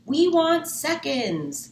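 loud, slow group call. Acted. Customers calling from the dining room, loud and slow. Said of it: "called a chorus of voices".

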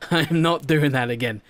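laughing it off; laughing vow. Real, not acted. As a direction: chuckle through the words, relieved.

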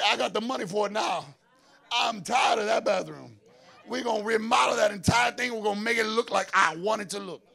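loud, fed-up declaration; mock exasperated homeowner. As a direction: stand up and declare the change. Congregant voicing fed-up homeowner.

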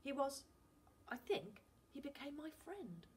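put-on boy gushing about the sea; words boiling out. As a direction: tumble it all out in wonder. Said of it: "Finn's words were boiling out of him".

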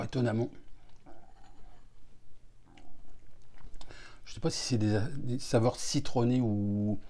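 fingers touching lips; partly muffled by hand; hand at mouth. Real, not acted. Seen 2: Hand touches lips and chin while tasting, moves away at 2.6.

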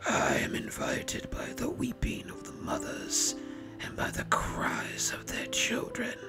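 soft, raspy whispered reply. A narrator's reading. Masked lord answers the baron's demand in a raspy whisper. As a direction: whisper with a dry rasp. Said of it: "was the raspy reply".

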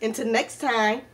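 upbeat, rehearsed sign-off to viewers; vlog outro. Acted.

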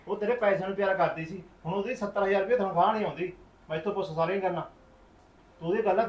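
brother venting about mother's greed; heated explaining. Acted. (ਜੋਸ਼ ਨਾਲ ਸਮਝਾਉਣਾ)

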